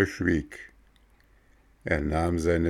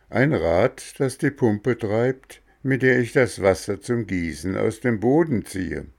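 higher, louder gardener voice; lightly voiced gardener; Mexle's voice; 4 semitones higher, 3 dB louder than usual.

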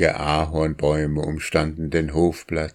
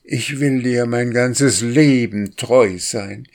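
higher drake voice, stress on Leben; courting drake; 6 semitones higher, 4 dB louder than usual. A narrator's reading. Drake courts the wild duck, sweet and higher. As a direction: woo her with a lilting promise on Leben. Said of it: "machte der Wildente Komplimente".

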